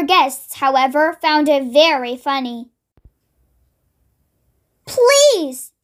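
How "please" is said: high, drawn-out plea; begging. A narrator's reading. Mister Grumble as a pig to the wizard, begging. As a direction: plead for mercy. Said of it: "begged Mister Grumble".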